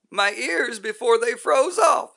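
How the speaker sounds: high, loud, furious rant; raging tirade. Acted. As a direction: shout every hardship in his face. Roy rages at the guru.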